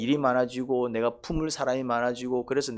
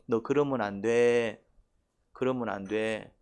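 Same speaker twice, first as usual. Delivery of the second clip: gentle patting rebuke; 2 semitones lower, 3 dB quieter, slower than usual. Retold or imitated. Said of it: "도닥거리신다 이 말이죠".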